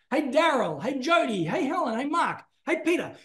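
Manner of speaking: rising call of names across a busy mall. Shown as a demonstration. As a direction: hail people one after another, climbing in pitch.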